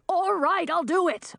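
contained storybook scream of surrender; panicked scream. A narrator's reading. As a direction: give in at the top of your voice range, in a fright. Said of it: "Olabald screamed".

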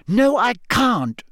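high, irritated refusal; Hermione, snapping. A narrator's reading. Hermione refusing Ron's invitation, snapping. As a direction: snap back a drawn-out no. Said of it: "snapped Hermione".

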